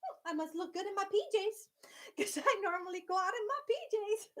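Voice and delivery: giggling through a mock vain thought; amused inner voice. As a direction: laugh it out, pleased with yourself. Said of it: "I go".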